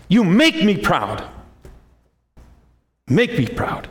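put-on a devoted mother telling her kid what she gives; voicing a mother. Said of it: "Can't you see that in the mothers?".

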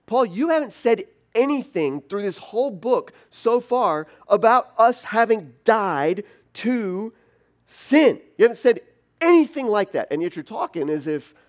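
loud, high, astonished outburst; a reader blurting out total disbelief; baffled reader. Pretend. Reader protesting to Paul, loud and astonished. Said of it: "you're supposed to go".

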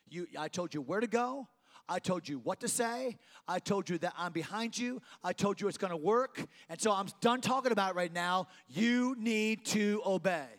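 firm command; insistent God. Acted. Preacher voicing God laying down orders.

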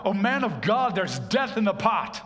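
mildly dramatized cry of alarm. Acted. Men crying out to the prophet over poisoned stew, crying out. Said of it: "the men cried out".

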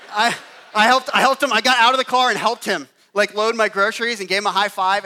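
loud rising emphasis; emphatic. Real, not acted. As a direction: proclaim it with full force. Emphatic climax of story.

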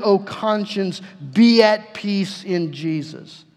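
slow, weighty preaching with each phrase set apart; solemn sermon cadence, slowed right down. Acted. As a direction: lean into it slowly, like a pastor pressing the point home. Preacher building to a slow climax.

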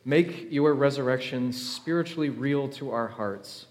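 steady, measured prayer voice; Easter prayer. Real, not acted. Pastor praying over the congregation on Easter morning, measured and earnest. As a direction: lead the church in prayer, earnest and even.

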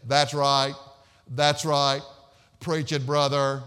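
loud, drawn-out monotone heckler; monotone amen-man. Retold or imitated. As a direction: call it out loud on one unvarying note. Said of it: "had a monotone voice".

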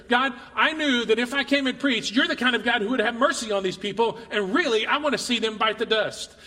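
acted angry prayer; lashing out. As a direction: protest to God, a little heated. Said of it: "Has anybody ever lashed out in anger?".

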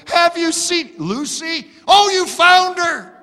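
high, hopeful asking; eager neighbor. Retold or imitated. Second driver asking the pastor about the dog, high and eager. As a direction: rush in hoping for news. Another frantic dog searcher.

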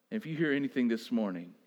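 low, soft, fast-spoken plea; a hushed call to listen; hushed urging. Acted. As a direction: lean in and say it quietly. Hushed plea inside quiet stretch.

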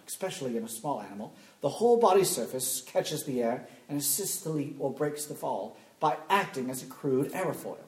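put-on awful English accent. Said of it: "I'm gonna read it to you in an awful English accent".

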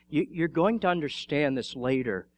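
gently reassuring, in an understated way; tender. Retold or imitated. Jesus answers a refusing Peter, tenderly. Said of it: "Jesus says very tenderly to Peter".

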